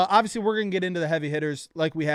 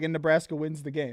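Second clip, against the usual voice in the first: ordinary delivery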